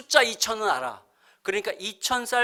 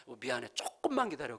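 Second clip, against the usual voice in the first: soft, subdued plea for patience; apologetic; 6 semitones lower, 10 dB quieter than usual. Retold or imitated. Wife soothing grumbling husband after rice ran out, apologetic. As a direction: imitate a sorry wife, quietly placating. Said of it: "너무 미안해하면서".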